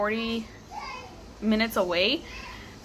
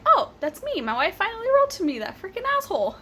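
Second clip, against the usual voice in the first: much higher, quicker imitating a thrilled husband; excited husband; 10 semitones higher, faster than usual. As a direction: play the husband buzzing at finally getting mail. Husband's reaction voiced in story.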